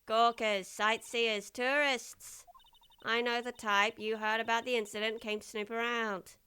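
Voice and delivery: gruff security guard. Acted. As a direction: sneer at the visitors. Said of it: "Actually, I love this voice".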